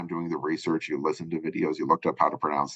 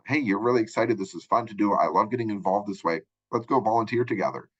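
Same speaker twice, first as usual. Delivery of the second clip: mock excited pitch; 3 semitones higher than usual. Shown as a demonstration.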